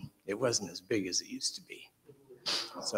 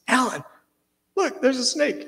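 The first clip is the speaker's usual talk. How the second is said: high, louder shouted warning; warning yell; 12 semitones higher, 4 dB louder than usual. Retold or imitated. Brother on the bulldozer warning Alan, a high shout. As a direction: call out to save him.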